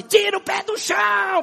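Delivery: high, slow, hammed-up shout of a worship leader; mock worship leader shout. Pastor mocking a pushy worship leader, shouting. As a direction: bellow it like a pushy song leader. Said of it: "o cara tá lá na frente".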